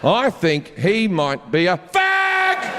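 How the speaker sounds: slowly drawn out, dawning realisation. Retold or imitated. Imagined fan telling his wife, slow dawning realisation. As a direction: let the penny drop, word by word.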